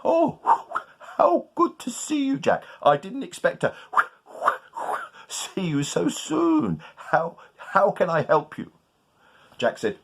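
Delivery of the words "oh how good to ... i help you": very high, slow, sweet wind spirit; North Wind. Acted. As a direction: sing out the welcome high and slow. North Wind greets Jack.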